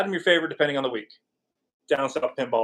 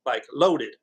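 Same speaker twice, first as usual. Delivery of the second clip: Appalachian accent; 2 semitones higher than usual. Real, not acted. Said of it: "slip into my Appalachian dialect".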